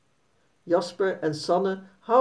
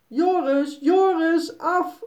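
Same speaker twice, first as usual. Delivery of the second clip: high rising call, second Joris higher; farmer calling the dog off; 10 semitones higher, slower than usual. Acted. Farmer chases the dog away from the pony, high commanding call. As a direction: order the dog off, climbing. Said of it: "roept de boer".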